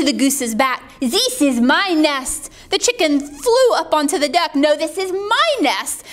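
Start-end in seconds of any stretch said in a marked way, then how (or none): 1.0-2.5 put-on drawn-out accented claim; possessive duck. Duck on goose's back, slow insistent claim. 4.5-6.0 higher-pitched protest; insistent chicken. Acted. Chicken on the duck, higher insistent protest. Chicken quarrels over nest.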